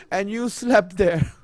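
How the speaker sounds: forceful, grieving sermon delivery; impassioned lament. Real, not acted. Preacher tells mourners of women and children made homeless, lamenting. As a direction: preach their hardship in insistent, emphatic phrases.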